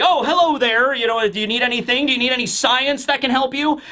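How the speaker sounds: lightly voiced Vegapunk. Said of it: "Vegapunk goes by, and he's just like".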